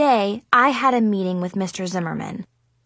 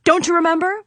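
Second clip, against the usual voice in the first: exasperated; 8 semitones higher, 3 dB louder, faster than usual. Acted. Irritated high question.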